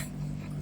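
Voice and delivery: quiet unvoiced chuckle; a short suppressed laugh; soft breathy laugh. Real, not acted. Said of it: "मुझे हंसी आ रही है".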